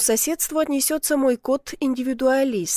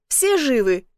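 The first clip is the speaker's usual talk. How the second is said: shouting; 3 dB louder, slower than usual. A narrator's reading. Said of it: "крикнул Добрыня".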